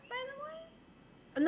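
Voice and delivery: high, slow teasing lilt; drawn-out playful question; mock sweet voice.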